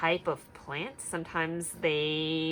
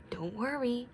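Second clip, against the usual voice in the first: murmur; 4 semitones higher, 3 dB quieter than usual. Acted. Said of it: "Bear murmurs".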